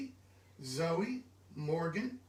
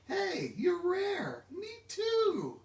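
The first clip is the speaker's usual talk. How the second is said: excited call-out; 11 semitones higher, much slower than usual. Acted. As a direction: call out to the child, thrilled. Cheerful call to the reader.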